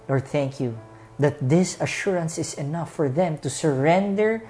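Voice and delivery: earnest pastor's closing prayer. Acted. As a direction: pray over the congregation with music.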